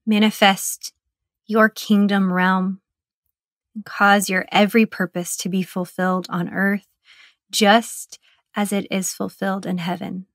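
measured, even prayer in short phrases; meditative prayer. Acted. Guide praying the Lord's Prayer for meditators, meditative prayer. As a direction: pray it reverently, pausing long between sections.

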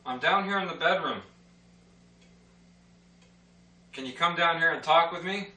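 talking to a ghost. Real, not acted. Calling out to spirits.

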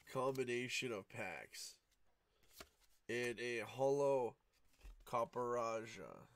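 sleepy monotone, just woken up; flat and drowsy, little pitch movement. Real, not acted. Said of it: "If my voice is monotone".

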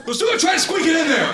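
squeaky. Acted. Mocking Subway workers.

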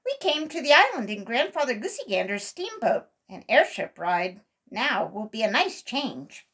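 put-on a delighted squirrel boy; excited cry. A narrator's reading. Billy cheering about the airship ride, excited. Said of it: "cried Billy".

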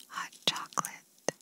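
breathy whisper right into the ear. Shown as a demonstration. Examiner testing the patient's hearing, whispered into the ear. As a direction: whisper the words close into one ear. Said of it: "I'm gonna whisper a word in your ear".

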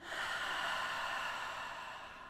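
long, slow audible breath out; soft, drawn-out sigh; deep breath. Shown as a demonstration. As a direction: demonstrate a relaxing deep exhale. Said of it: "take a nice deep breath".

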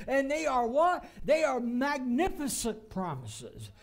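emphatic, rising sermon delivery; forceful preaching. Real, not acted. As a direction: proclaim it with conviction, leaning on key words. Preaches fulfilled prophecy with force.

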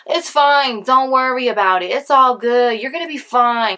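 hint of dismissive parent; mock reassuring parents. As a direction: brush it off like an unworried parent. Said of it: "You know how parents are".

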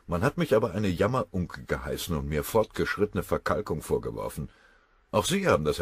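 put-on a touch of a wounded old colonel; lightly voiced colonel. Colonel defends himself to his general, a touch hurt.

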